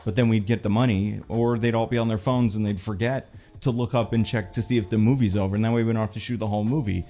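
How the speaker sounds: lightly voiced smug producer, rushed; a hint of a scheming producer; mock producer. Vlogger mocking lazy producers, light smug producer voice. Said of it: "some producers level".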